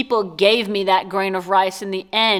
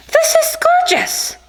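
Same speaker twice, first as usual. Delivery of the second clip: much higher, slow, near crying; tearful awe; 4 dB louder than usual. Real, not acted. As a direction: choke up with gratitude. Moved by a homemade gift.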